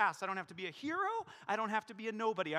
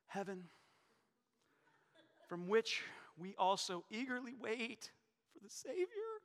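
mocking reading. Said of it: "we hear it like this".

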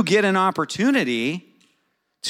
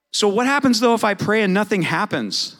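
raised, louder rhetorical question; 6 semitones higher, 4 dB louder than usual. Shown as a demonstration. Pastor challenges the congregation, high and loud. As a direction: pastor asks the room outright, higher and louder. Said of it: "Does anybody ever worry about that?".

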